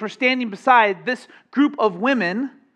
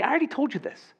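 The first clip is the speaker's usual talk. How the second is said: parent's retort; 4 semitones higher, 4 dB quieter, faster than usual. Retold or imitated. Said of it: "only to hear them say".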